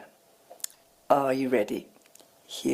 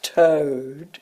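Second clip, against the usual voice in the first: toad held back after a pause, then breathed out; paused rhyme word; 3 semitones lower than usual. Acted. After a long pause, the rhyme word toad to a child. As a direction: let the pause land before toad. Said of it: "She used a pause there to really emphasize the target rhyme".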